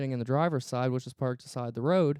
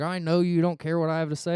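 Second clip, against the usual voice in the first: raised, higher voice, mildly mimicking a yell; retold yelling; 4 semitones higher, 5 dB louder than usual. Cop snapping back at the driver he searched, mild retold yell. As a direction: push it louder and higher like an irritated cop. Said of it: "he starts yelling at me".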